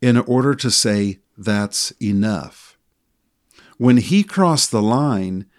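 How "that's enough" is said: slow, even and firm; calm firm. Retold or imitated. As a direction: say it calmly, without anger. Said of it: "in the same tone of voice".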